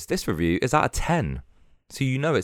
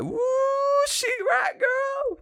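high, slow mock yell; imitating Greta Thunberg; slower than usual. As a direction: shout it like an outraged teen activist. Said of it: "Greta's with Karen going like".

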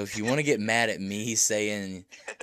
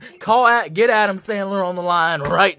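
hyped Hollywood producer; excited; 6 semitones higher, 9 dB louder than usual. Pretend. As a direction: shout it like a big pitch.

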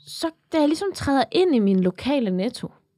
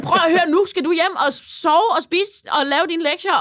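higher-pitched mock scolding; motherly authority; 4 semitones higher than usual. Customer ordering a boy home, lightly imitated motherly authority. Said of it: "en form for morautoritet over for ham".

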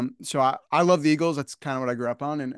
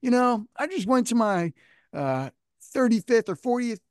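put-on high, slowed stage banter in an Italian accent; a rocker's Italian accent; 9 semitones higher than usual. A rocker telling the arena about his reunion, Italian accent. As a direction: ham up a brash Italian-accent rocker telling a story. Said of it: "And he's like".

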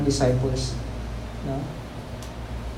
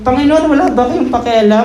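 panicked plea; 5 semitones higher, 4 dB louder than usual. Retold or imitated. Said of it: "Tapos sabihin".

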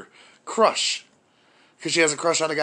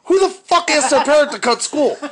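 outraged rant; 7 semitones higher, 3 dB louder than usual. Real, not acted. Outraged father ranting.

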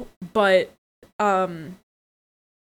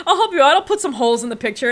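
laughing offer; 4 semitones higher, faster than usual. Retold or imitated. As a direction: offer help through laughter. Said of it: "he's like".

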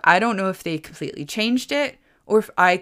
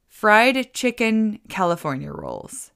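slow reveal; 4 semitones higher, slower than usual. Retold or imitated. Reveals menu find, slow and high.

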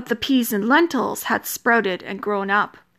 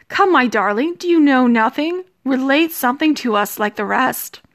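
coaxing bridegroom; 3 semitones higher, 3 dB louder than usual. Acted. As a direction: press her to speak, forcefully.

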